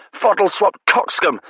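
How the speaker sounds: high, loud, relishing the words; gleeful repeat. Acted. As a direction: bellow it back happily. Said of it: "delighted relish".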